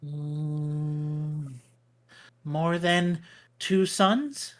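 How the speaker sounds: squirrel. Acted. GM squirrel answers.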